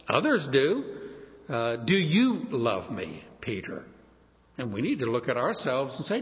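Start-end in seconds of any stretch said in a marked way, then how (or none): 1.8-3.9 single out "you", then let "Peter" fall away; stress on YOU. Shown as a demonstration. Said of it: "emphasize one part".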